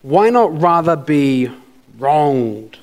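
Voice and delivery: slow reading, WRONGED set apart after a pause; stress on wronged. Shown as a demonstration. Preacher reading the verse to congregation, emphasizing wronged. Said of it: "I'm gonna emphasize the word wrong".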